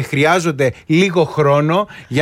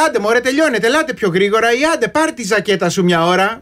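impatient; 5 semitones higher than usual. Retold or imitated. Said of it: "κάποιες φορές έχω πει".

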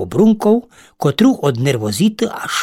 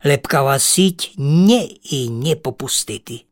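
plain reading voice

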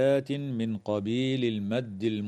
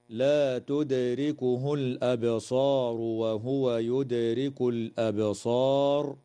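Quranic recitation. Shown as a demonstration. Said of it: "قوله تعالى".

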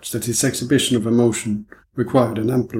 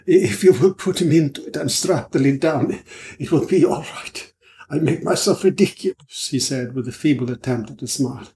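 over-explaining, nervous; a hint of a jittery foreigner; anxious foreign gentleman; 2 semitones higher than usual. Swallow, feeble smile.

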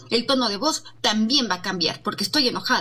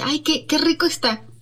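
incongruent praise; 4 semitones higher than usual. Shown as a demonstration. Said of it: "un ejemplo de incongruencia".

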